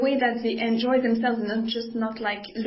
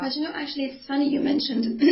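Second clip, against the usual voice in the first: hoarse, voice giving out; losing voice; 3 semitones higher than usual. Real, not acted. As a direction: talk through a hoarse, tired voice. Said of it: "I'm losing my voice already".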